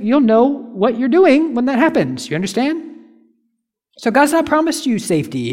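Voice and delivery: emphatic preaching. Real, not acted. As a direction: drive the warning home to the congregation. Exhorting the congregation.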